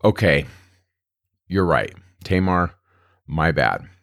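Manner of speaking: understated admission of fault, with long pauses; lightly acted contrition, halting; mildly repentant. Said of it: "shows that Judah's repentant".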